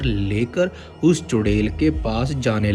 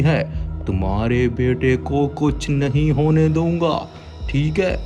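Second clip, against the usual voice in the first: confident holy man; 4 semitones higher than usual. Acted. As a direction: boast calmly of power. Baba reassures. (आश्वासन देता बाबा)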